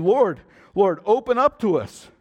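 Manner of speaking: loud, high pleading cry; pleading virgins. Acted. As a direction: beg at the shut door. Virgins pleading at the closed door.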